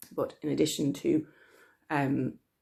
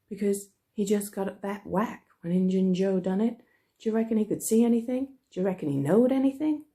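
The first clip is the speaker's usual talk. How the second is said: put-on excited boy's voice; 5 semitones higher, 4 dB louder than usual. Tom voiced in read story.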